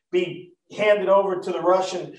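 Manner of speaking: says "Russian" by mistake, plainly; slip of the tongue. Real, not acted. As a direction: trip over "Russian" where Romans was meant. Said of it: "I got my R's mixed up there".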